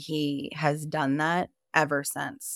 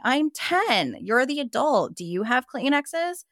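high, louder mocking of a yelling stepmother; shrill-edged retold scolding, raised high; 8 semitones higher, 4 dB louder than usual. Stepmother yelling at a ten-year-old in the car, mock-angry and high. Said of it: "she was, like, yelling at me".

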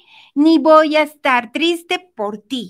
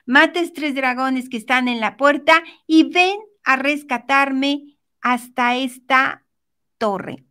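desperate princess. Acted. Princess repeating her plea to the prince, mildly desperate. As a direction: insist with a touch of desperation, slowing at the end. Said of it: "la princesa desesperada le dice".

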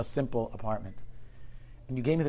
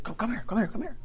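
calling out; 10 semitones higher than usual. Retold or imitated. Man calls to wet student.

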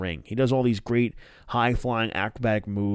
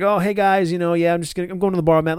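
high, loud, awkwardly friendly greeting; hammed-up nervous hello; awkward Dark Order guy; 7 semitones higher, 6 dB louder, faster than usual. Retelling Dark Order meeting Hangman, high awkward greeting. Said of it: "like Dean all awkward".

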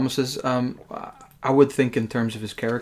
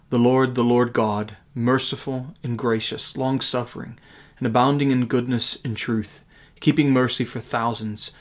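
scripture reading. Acted. Reads scripture aloud.

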